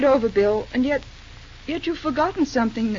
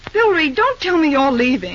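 dismayed surprise; 2 semitones higher, 5 dB louder than usual. Acted. She learns Bill is leaving.

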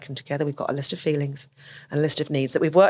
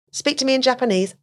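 mock demand; 8 semitones higher than usual. Example demand.

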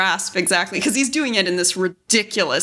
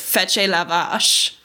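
French line quoted; slower than usual. Retold or imitated. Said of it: "He says".

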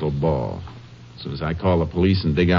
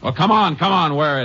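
much higher, urgent push to make her talk; impatient pressing; 10 semitones higher than usual. Acted. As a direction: hurry her up, no more stalling. Ranger pressing the woman.

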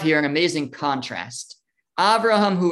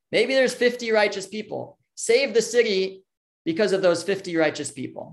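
lightly acted plea, pitched higher; a touch of appeal, raised pitch; mild pleading; 5 semitones higher than usual. Avram appeals to God for Sodom, mildly pleading. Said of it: "Avram is pleading on behalf of Sodom".

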